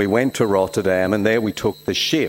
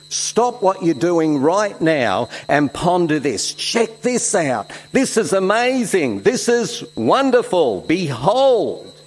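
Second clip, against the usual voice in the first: higher, thrilled call to stop and look; excited paraphrase; 6 semitones higher than usual. Acted. Preacher paraphrasing John to his congregation, thrilled and higher. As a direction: urge them to stop and marvel. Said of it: "we could paraphrase it like this".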